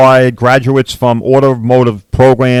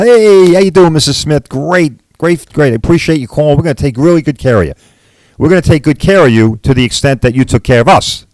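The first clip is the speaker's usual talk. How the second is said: mock-sweet insurance rep greeting a customer; mock insurance agent; 2 semitones higher than usual. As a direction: play the falsely friendly insurer, lightly. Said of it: "they're not gonna say it like that".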